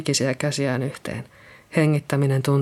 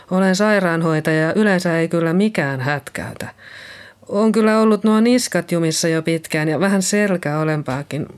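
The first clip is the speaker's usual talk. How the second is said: Liisa, shaken nurse; 3 semitones higher than usual. Acted. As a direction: speak as Liisa just come round. Liisa apologises. (kevyesti äänitetty järkyttynyt Liisa)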